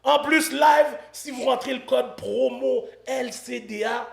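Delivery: measured announcer delivery with pauses between phrases; sponsor ad read. Acted. Host reading a betting site promo to viewers, ad-read style. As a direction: sell the sponsor, punching each key phrase.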